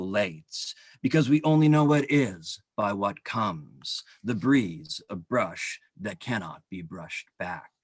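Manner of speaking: measured poem delivery, each line launched firmly and falling away; poetry reading. Acted. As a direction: read the poem out deliberately, pausing between phrases. Reads own poem aloud.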